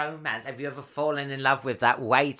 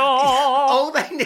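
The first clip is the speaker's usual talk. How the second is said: laughing; 11 semitones higher, 8 dB louder, much slower than usual. Real, not acted. Laughing after the song.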